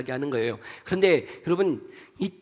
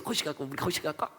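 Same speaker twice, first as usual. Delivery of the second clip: softer, offhand dialect chat; regional Korean dialect; 8 dB quieter, faster than usual. Shown as a demonstration. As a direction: imitate locals chatting in regional dialect. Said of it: "서로 막 거시기 하면서". (사투리로 주고받듯 작게)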